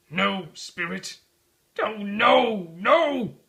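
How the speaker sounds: rising frantic cries of no; desperate pleading. Acted. Scrooge begging the ghost at his grave, terrified.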